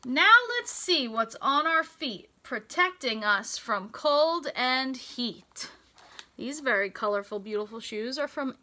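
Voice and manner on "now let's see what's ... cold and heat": bright, sing-song storybook read; lilting picture-book voice; reading to children. Acted. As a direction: read the rhyme to a class of little kids. Reads rhyming picture book aloud.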